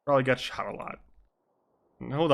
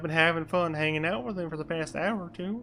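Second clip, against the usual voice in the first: higher, put-on character voice; in-character reply; 5 semitones higher than usual. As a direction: answer politely in a higher acted voice. Player answers detective in character.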